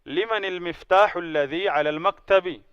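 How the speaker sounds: whole phrase linked slowly, limani-lmiftahi-lladhi ala-lmaktabi; slow, careful connected recitation; model Arabic reading. Shown as a demonstration. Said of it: "model reading of full phrase".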